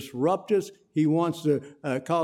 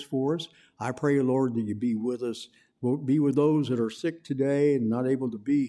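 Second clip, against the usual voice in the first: closing prayer; 4 semitones lower than usual. Acted. Closing prayer after sermon.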